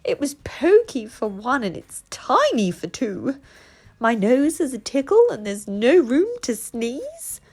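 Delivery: put-on high, loud wail of a frazzled old lady; distraught cry. Old lady wails about her tiny house, high and loud. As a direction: cry out in despair over the crowded house. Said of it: "The little old lady cried".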